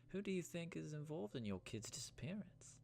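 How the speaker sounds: put-on high-pitched questioning in a British Isles accent; Irish or English accent. Game character asks about missing kids, Irish-English accent. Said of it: "am I doing an Irish accent".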